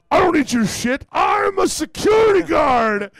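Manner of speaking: high, bellowed declaration; hammed-up belligerent yell, stretched at the end; retold drunken defiance. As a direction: shout it with absurd self-importance. Drunk, flashes licence at police.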